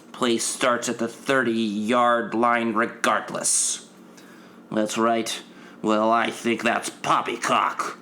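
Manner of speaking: prim, slow nerdy persona; lightly voiced stuffy white guy. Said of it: "switch back to my normal persona".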